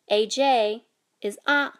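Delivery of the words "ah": ah climbing in pitch; Hmong rising tone. Shown as a demonstration. Teacher demonstrating tone J, rising ah. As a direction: lift ah upward. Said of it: "a rising tone".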